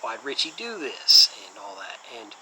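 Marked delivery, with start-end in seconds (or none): 0.0-1.3 imitated demand, higher and louder; lightly acted movie-cop outburst, pitched up; Steven Seagal. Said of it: "he's like".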